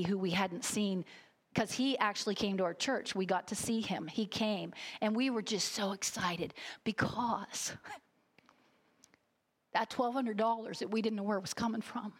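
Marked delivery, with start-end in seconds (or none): 5.0-12.1 choked up. Real, not acted. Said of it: "I can't apologize for getting choked up".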